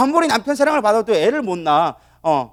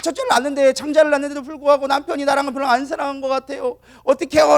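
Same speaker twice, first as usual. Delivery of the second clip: high-pitched acted plea to God; pleading prayer; 6 semitones higher than usual. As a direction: play a wife wailing her complaint in prayer. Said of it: "그래서 또 기도했어". (높은 목소리로 애타게 하소연하는 기도 흉내)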